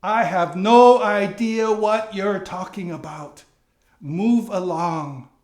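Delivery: acting a loud, defensive denial; indignant denial. Peter denying Jesus to a servant girl, loud and dismissive.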